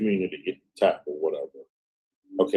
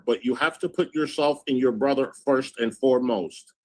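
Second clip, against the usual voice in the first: higher-pitched read-out voice; reading a message aloud; 6 semitones higher than usual. Acted.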